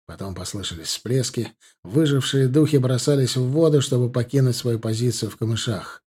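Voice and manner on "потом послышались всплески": ordinary delivery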